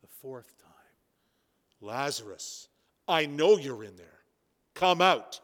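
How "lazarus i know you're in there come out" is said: calling into the tomb. Acted. Jesus calling Lazarus out of the tomb, rising. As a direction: call Lazarus out of the tomb, building. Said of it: "He calls into the tomb".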